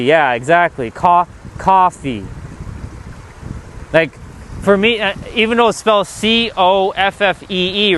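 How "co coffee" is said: "coffee" slowly, with an open ah; speaker's own pronunciation. Shown as a demonstration. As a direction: break it up, "Co-, coffee", as KAH-fee. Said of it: "the same way I say it".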